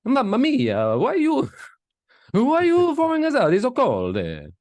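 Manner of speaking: high, loud hammed-up protest to mama; mock wail of sons being thrown out; imitating pleading sons. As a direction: plead in a put-on falsetto. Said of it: "they're gonna be like".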